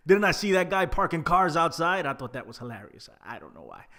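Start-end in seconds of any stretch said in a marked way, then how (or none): 0.1-2.1 high, loud, laughing retelling; amused quote. Retold or imitated. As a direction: retell the quip loudly through laughter. Amused retelling of commentator's funny quip.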